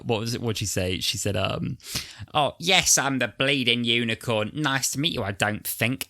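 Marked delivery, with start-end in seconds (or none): 2.3-6.1 lightly voiced mock Cockney, higher; a hint of Dick Van Dyke Cockney; fake Cockney accent. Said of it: "Cockney accent".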